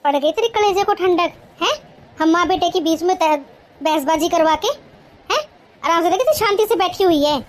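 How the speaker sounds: scolding mother-in-law. Acted. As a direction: bark at the lazy daughter-in-law. Mother-in-law taunts the bahu. (ग़ुस्से में डाँटती सास)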